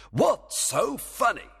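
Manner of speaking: high, slow, irritated question; exasperated, drawn-out challenge; demanding. Acted. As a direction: demand to be let in on the joke. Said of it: "demanded the king".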